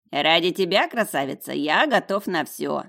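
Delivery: pompous, cheeky declaration; self-important. A narrator's reading. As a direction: declare it grandly to the beauty. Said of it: "важно заявил нахал". (важно и нахально)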